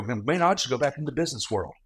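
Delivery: imitating his own brash complaining; cocky venting. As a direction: rattle it off like an arrogant young hotshot. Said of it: "I go, I go".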